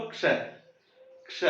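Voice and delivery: क्ष with a soft, barely sounded क running into श; light k then sh. Shown as a demonstration. Teacher to students: demo क्ष, soft क, stress on श. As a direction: say क्ष, keep the क light and lean on श. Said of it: "क को हल्का सा बोलना".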